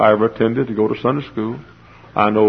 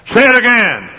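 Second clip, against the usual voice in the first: mother urging; 13 semitones higher, 7 dB louder than usual. Retold or imitated. Mother urging her little son.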